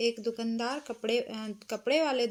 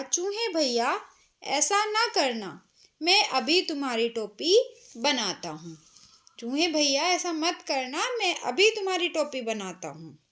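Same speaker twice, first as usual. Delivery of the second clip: frightened pleading. Acted. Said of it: "डर गया दर्जी".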